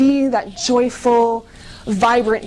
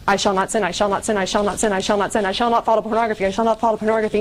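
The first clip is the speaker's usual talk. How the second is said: mock repeated mantra; much faster than usual. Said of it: "You know, like".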